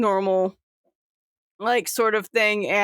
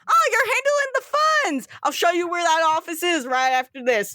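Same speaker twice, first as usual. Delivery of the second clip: higher, excited captain voice; eager captain; 7 semitones higher than usual. Acted. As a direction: boom it out like a jolly captain. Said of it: "and he goes".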